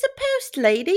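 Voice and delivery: high-pitched put-on London accent; British accent. Host introducing the cast member from London, bad British accent. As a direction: say it in a mock-posh British accent. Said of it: "She's from London".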